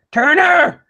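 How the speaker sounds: high, loud drawn-out holler; yelling back. Pretend. Player's character yells back for Turner, a high drawn-out holler. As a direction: holler the name for help. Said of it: "I just yell back".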